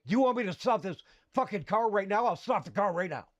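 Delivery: mildly hammed-up parental threat; retold angry threat. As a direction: imitate a father's heated warning. Father threatens to stop car.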